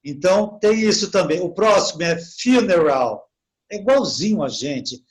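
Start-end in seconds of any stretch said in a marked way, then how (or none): 2.2-3.3 "funeral" with U said as "you"; English pronunciation. Shown as a demonstration. Teacher showing students the English U, "FIU-neral". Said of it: "é you".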